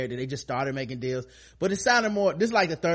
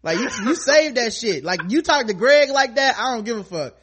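mock confronting Daryl; 7 semitones higher, 5 dB louder than usual. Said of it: "My thing with Daryl was like".

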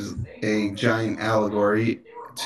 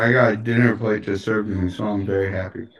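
talking through a mouthful; words round a bite of food; mouth full; 3 semitones lower, faster than usual. Real, not acted. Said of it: "Don't, don't talk with your mouth full".

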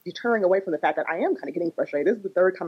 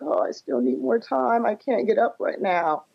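put-on whiny sleepy kid; 6 semitones higher, slower than usual. Mother voices sleepy daughter.

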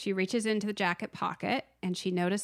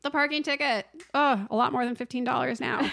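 mock exasperation; 5 semitones higher, 4 dB louder than usual. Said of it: "And I'm like".

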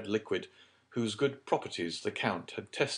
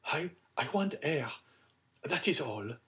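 high, faltering lady's voice; mild distress, pitched up; strained effort; 8 semitones higher than usual. A narrator's reading. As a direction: force the words out haltingly. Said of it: "replied with a violent effort".

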